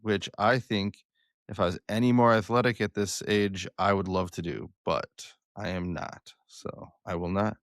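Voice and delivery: flat, even monotone announcer voice. Real, not acted. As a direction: read the intro in a deadpan monotone. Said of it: "your monotone voice with the intro".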